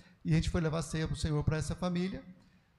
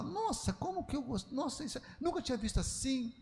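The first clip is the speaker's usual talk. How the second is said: high, hushed mock astonishment; gushing "nossa" in a small high voice; amazed reaction; 7 semitones higher, 7 dB quieter than usual. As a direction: imitate amazed listeners, soft and high-pitched. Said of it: "vários vieram falar".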